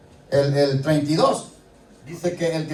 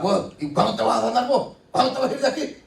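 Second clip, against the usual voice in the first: mock impatient doctor, pitched higher; scornful doctor; 5 semitones higher, faster than usual. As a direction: lightly jeer at the patient like a rude doctor. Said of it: "No le llega diciendo".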